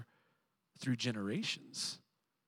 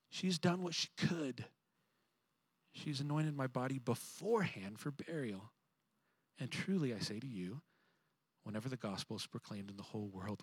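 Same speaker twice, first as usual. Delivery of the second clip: Jesus rebuking; 3 dB louder than usual. Retold or imitated. Jesus defends Mary to the disciples, firm then hushed. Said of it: "Jesus said".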